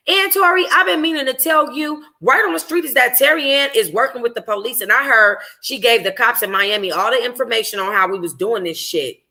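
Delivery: lightly voiced sassy friend spilling news; Dior's voice. Dior passes on street gossip.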